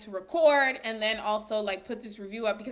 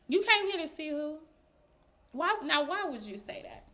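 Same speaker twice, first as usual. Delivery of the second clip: softer imitated dismay, pausing before why; disapproving reaction; 3 semitones higher, 3 dB quieter than usual. Zari reacting to Andile's admission, imitated disapproval. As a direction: voice her unspoken "really?". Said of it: "but that was her reaction".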